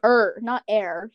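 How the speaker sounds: slow, "Er" set against "air"; "Er" and "air" each spelled out slowly; contrasting name endings. Shown as a demonstration. Correcting friends on a name's last syllable, slow contrast of "Er" with "air". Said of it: "It's cozier, but with an H".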